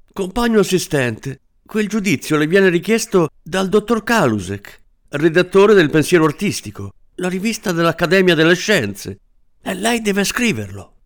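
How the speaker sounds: high, insistent protest; a small married man defending his honour; indignant little man. Acted. Little man protesting to the assistant, high and indignant.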